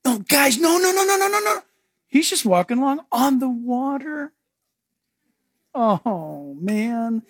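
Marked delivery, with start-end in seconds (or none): 0.1-1.6 high, rising no-no-no; mock-cheerful Jesus; playful reassurance. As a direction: wave off their fear lightly. Jesus voiced reassuring disciples.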